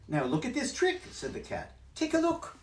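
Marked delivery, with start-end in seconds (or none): 0.1-1.0 high, bouncy cheeky cat; cat's voice. Acted. Cat in the hat teasing the fish, high and loud. 1.9-2.6 high, bouncy cheeky cat; cat's voice. Acted. Cat in the hat teasing the fish, high and loud.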